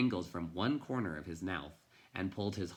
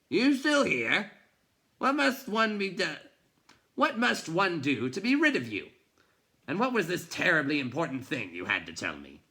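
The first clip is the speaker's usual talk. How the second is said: much higher and louder, exasperated; irritated grump; 10 semitones higher, 8 dB louder than usual. A narrator's reading. Bookseller exasperated the boy is still there, loud and high. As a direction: shoo the pest away in disbelief.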